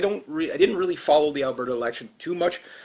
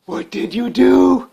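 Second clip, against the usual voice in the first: higher, louder, slow exasperated repeat; exasperated outcry; 9 semitones higher, 6 dB louder, much slower than usual. Pretend. Repeating the question to Alberta voters, in an exasperated outcry. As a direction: cry it out in disbelief.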